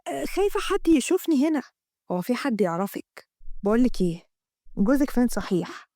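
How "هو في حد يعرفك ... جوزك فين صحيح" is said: hint of a probing man; lightly voiced lover. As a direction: ask about the husband as a lower-voiced man. Amgad voiced by narrator.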